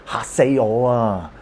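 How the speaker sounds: mock startled. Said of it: "anytime you scare somebody or somebody is scared".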